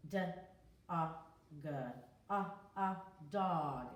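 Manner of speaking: dog broken into d, a, g, then blended; sounding out dog. Shown as a demonstration. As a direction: segment dog for little kids. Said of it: "It's an O".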